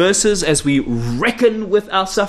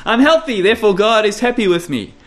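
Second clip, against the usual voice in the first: a hint of a self-satisfied believer, higher; lightly voiced smug churchgoer; mock smug believer; 4 semitones higher than usual. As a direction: lightly parody the prosperity boast. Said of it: "You know".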